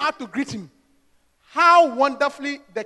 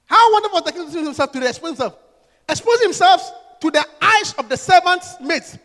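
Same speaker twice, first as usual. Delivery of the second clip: sarcastic. Acted. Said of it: "you are so sarcastic".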